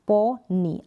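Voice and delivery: पोनी split as po, then nee; sounded out. Shown as a demonstration. Teacher giving an example of final Y, पोनी in two parts. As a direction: break पोनी in two, ending on a clear ee. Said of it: "हम ई sound produce करेंगे".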